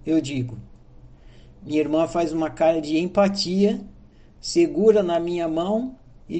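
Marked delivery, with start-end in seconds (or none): none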